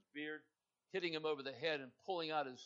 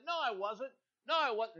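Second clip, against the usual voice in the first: insistent denial; 6 semitones higher, 6 dB louder than usual. Acted. Peter denying to accusers.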